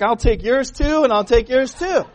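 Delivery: lightly voiced cheeky child; greedy little girl. Greedy girl in candy story.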